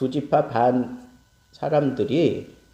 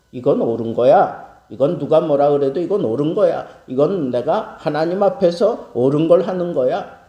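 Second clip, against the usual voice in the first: louder, quick, self-righteous insisting; stubborn insistence; 4 dB louder than usual. Retold or imitated. The tribes insisting to the congregation, in a loud stubborn voice. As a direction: dig in, sure you're right.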